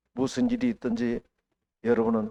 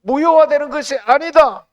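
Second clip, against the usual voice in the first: high, loud preaching at full force; fiery preaching; 12 semitones higher, 12 dB louder than usual. Acted. Preacher to the congregation, fiery preaching. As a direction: proclaim it to the whole church.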